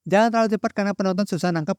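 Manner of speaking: rushed, hurried delivery; too fast. Shown as a demonstration. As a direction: rattle it off quickly as a bad example. Demonstrates speaking too fast.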